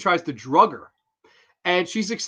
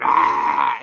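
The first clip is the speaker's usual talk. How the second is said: mock scream; 6 dB louder than usual. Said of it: "screams and runs out of the room".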